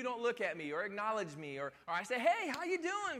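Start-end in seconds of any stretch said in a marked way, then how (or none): 2.2-3.2 higher, slow cheery hello; mocking his own cheery morning hello; chipper greeting. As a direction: sing out a bright good morning. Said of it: "'cause I'm just so chipper".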